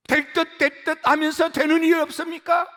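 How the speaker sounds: high, pressing sermon question. Shown as a demonstration. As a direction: lift the question high to the congregation. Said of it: "repeated lament phrase".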